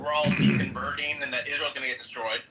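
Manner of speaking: Jewish joke character. Acted. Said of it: "And he's like".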